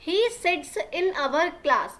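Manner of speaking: very slow, word by word for learners; slow classroom dictation reading; slow read-aloud. Shown as a demonstration. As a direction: spell the sentence out slowly for the class. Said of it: "teacher reads the line".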